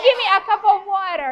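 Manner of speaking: lightly imitated American accent, "water" as "wara"; a hint of American on "water". Shown as a demonstration. Teacher modelling an American request for pupils, American accent. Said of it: "how do the Americans say water".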